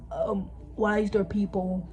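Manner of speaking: hushed whispered question. Acted. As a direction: whisper it secretly. Unvoiced whisper.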